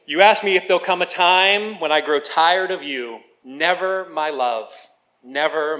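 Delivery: love song recited like a poem; lyrics read aloud. Acted. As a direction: speak the lyrics in measured phrases, without singing.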